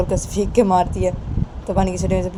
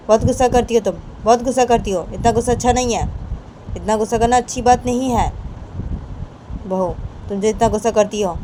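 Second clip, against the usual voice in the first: steady admonishing voice, higher than the narration; firm, calming elder; 4 semitones higher than usual. Acted. Chhoti Maa telling bahu to cool her head, firm and steady. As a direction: talk her down, repeating patiently. Elder urges Rama to calm down.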